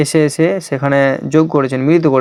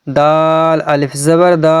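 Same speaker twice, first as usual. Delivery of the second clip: slow joined reading; much slower than usual. Shown as a demonstration. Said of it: "চলুন আমরা সেভাবেই পড়ি".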